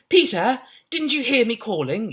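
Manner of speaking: put-on high, urgent girl calling out; breathless high-pitched girl calling; Janet's high excited voice. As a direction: call up the stairs in a high young voice. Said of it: "that's her voice now".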